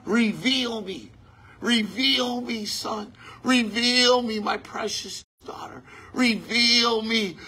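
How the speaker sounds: drawn-out tender plea, a whisper on the daughter; a hint of God calling his children; God pleading. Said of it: "when I just said that".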